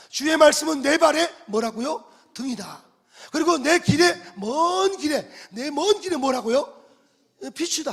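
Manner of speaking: loud, high prompts to the congregation; preaching call and response. Acted. A pastor prompting the congregation to finish the verse, loud call. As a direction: throw the verse out and make them answer. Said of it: "call and response with congregation".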